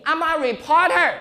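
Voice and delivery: "I'm a reporter" slowly and clearly, teacher-style; slow careful English. Shown as a demonstration. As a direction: spell out "reporter" slow and high for pupils. Teacher pronouncing for class.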